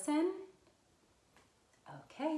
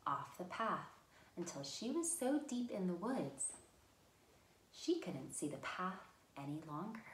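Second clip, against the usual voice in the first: story narration. Acted. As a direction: read the tale gently to little listeners. Reads a fairy tale.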